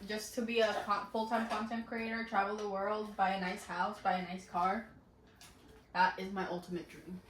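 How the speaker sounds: talking with a burning mouth; words through hot sauce burn; mouth burning from spicy food. Real, not acted. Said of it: "The roof of my mouth is burning now".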